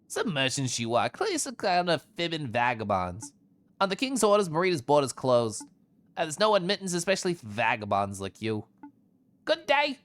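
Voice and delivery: a hint of a dismissive guard; mildly scornful gatekeeper; lightly voiced border guard. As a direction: lightly play an official turning vagabonds away.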